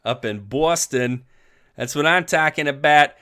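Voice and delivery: hammed-up, clumsy Boston accent; terrible Boston accent. Host greeting a friend up in Boston, bad Boston accent. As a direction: badly fake a Bostonian accent. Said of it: "That was a terrible Bostonian accent".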